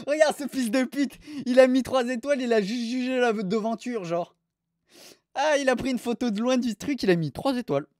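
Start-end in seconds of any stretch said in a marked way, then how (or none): 0.1-4.0 indignant outburst. Real, not acted. Outraged at 3-star review.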